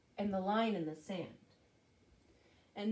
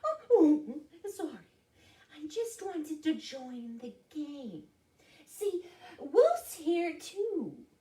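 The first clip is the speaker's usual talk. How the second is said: high, whimpered storybook apology; high, sheepish animal whimper; whimpering bobcat; 7 semitones higher, 5 dB louder, slower than usual. Acted. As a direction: whimper like a cowed cat. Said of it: "Bobcat whimpered".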